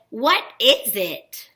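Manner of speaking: "What is it?" drawn out slowly as a question. Shown as a demonstration. Teacher reading "What is it?" for children to spot a question, questioning voice. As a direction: ask "What is it?" slowly, each word clear. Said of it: "'cause I'm asking a question".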